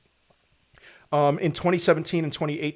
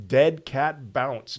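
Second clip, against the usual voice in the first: slow, mock-ominous sarcastic warning; dead cat bounce dragged out very slowly in mock dread; much slower than usual. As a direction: drag the words out as a fake doom warning. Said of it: "I'm being sarcastic".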